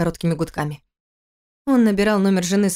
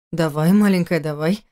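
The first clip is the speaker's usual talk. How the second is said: as tenderly as possible; 3 semitones lower than usual. Acted. Husband soothing his wife on the phone, tender. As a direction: coax her gently like a lover. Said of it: "ответил он как можно ласковее".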